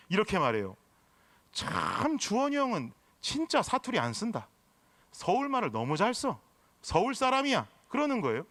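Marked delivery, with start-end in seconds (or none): 1.5-7.7 Gyeongsang dialect. Retold or imitated. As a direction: admire someone in a mock Gyeongsang accent. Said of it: "엄청 진하게 사투리를 쓰던 사람". (경상도 사투리 흉내)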